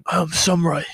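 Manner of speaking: put-on comic Japanese accent; playful fake Japanese pronunciation; caricatured Japanese word; mock Japanese.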